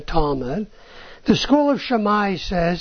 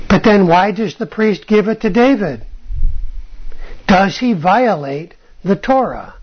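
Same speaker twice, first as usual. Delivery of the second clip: emphatic challenge; 6 dB louder than usual. Real, not acted. Pressing a rhetorical challenge.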